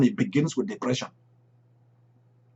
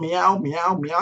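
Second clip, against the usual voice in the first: mock meowing; 3 semitones higher, slower than usual. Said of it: "And he told".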